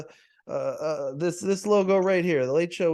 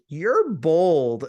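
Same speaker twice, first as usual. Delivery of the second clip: quoting a disarming tease, punched; charming teasing; 5 dB louder than usual. Retold or imitated. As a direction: imitate her charming, loud 'bold'. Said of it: "charming, disarming".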